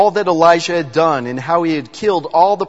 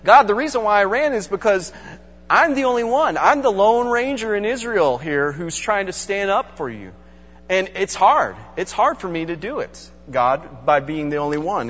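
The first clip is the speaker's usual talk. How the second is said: higher, pleading whine of an excuse; excuse-making Elijah; 5 semitones higher than usual. Retold or imitated. Elijah excusing his flight to God, higher and pleading. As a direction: plead your case, a bit sorry for yourself. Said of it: "Elijah comes up with a great excuse".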